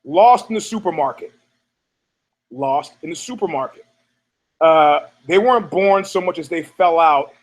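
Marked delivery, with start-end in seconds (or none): 2.5-3.9 softer, lower echo of the title; quiet echo. Shown as a demonstration. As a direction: repeat the title softly, like an echo. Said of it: "new category".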